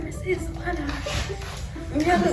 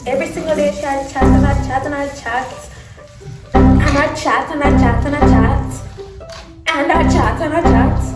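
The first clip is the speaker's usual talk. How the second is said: mocking Jamaican patois chatter; 4 dB louder than usual. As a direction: imitate her Jamaican patois rambling. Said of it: "she sound like that every day".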